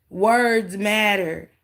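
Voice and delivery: slow, deliberate words matter; slow emphatic preaching. Shown as a demonstration. Streamer lecturing chat on words, slow and deliberate. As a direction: spell it out slowly for chat. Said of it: "I tell y'all that all the time".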